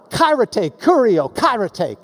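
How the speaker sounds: "Kairete, kurio, kairete" with the opening K sounds stressed; "Kairete, kurio, kairete", each hard K brought out. Shown as a demonstration. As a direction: hit the first syllable of "Kairete, kurio, kairete". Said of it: "It's got the ka sound".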